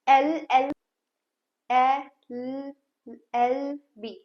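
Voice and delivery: "एल" spelled out letter by letter, the first one loud. Shown as a demonstration. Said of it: "सबसे पहला sound कौन". (अक्षर-अक्षर अलग बोलना)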